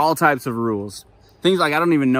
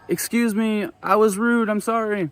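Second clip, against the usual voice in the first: flustered apology; 9 semitones higher than usual. Retold or imitated.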